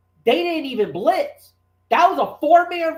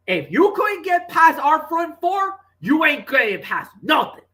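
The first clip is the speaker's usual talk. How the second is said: defiant defense voice; 5 semitones higher than usual. Retold or imitated. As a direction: bark it like a cocky pass rusher.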